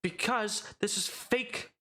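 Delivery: high, indignant, rising rant; furious elf demanding a refund; angry drow complaint. Acted. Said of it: "He's like".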